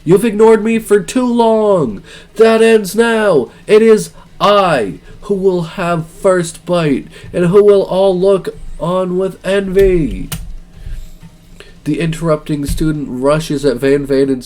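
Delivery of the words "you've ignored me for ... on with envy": louder, higher, slow villain declaration; slow grand threat to the chef ancestors; menacing boast. Acted. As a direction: proclaim it like a vengeful rival.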